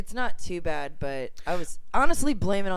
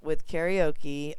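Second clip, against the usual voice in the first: ordinary delivery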